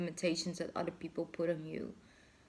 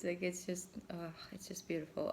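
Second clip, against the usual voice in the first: awed whisper; 7 dB quieter than usual. Real, not acted. Awed by butterfly image.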